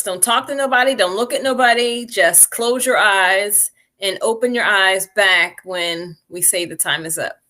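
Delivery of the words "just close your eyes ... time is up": calm guiding voice. Acted. Guides the group into meditation.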